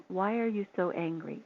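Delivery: soft, calm question; calmly. Retold or imitated. To the raging owner on the phone, calm and soft. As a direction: ask it gently, defusing the rage. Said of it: "I just calmly said".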